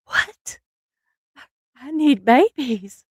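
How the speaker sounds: high, laughing whine for babies; whiny, laughing plea. Retold or imitated. To her daughter whining through laughs for babies. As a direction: beg and laugh at once. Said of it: "I'm like".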